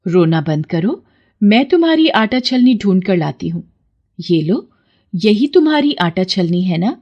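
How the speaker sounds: calm reassuring offer; gentle goddess. Acted. Goddess offers Vikram a sieve, gentle. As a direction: comfort him kindly.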